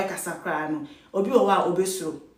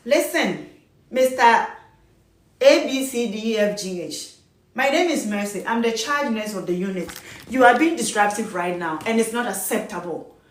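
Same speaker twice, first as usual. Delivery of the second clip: calm, firm, no pleading. Shown as a demonstration. Charge nurse to disruptive patient, firm and calm. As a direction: set boundaries steadily, not disrespectful. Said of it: "So the tone that you will use".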